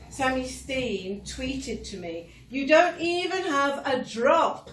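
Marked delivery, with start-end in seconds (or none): 2.5-4.7 weak Scottish accent mocking a tweeter; half-hearted Scottish accent. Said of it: "I can't do the Scottish accent properly".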